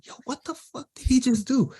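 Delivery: high-pitched retold amazement; astonished question. Rapper stunned by another's verse, asking producer, astonished. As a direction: imitate someone floored by what he heard.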